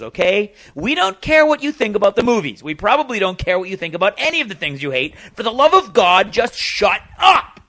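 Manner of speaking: rising from firm to shouting; building angry rant. Real, not acted. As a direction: work up into a furious yell. Ranting at grumpy naysayers.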